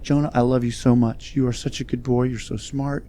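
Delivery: put-on hushed, tender praise to a baby; doting grandma. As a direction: softly imitate grandma cooing over her grandson. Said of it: "and she's like".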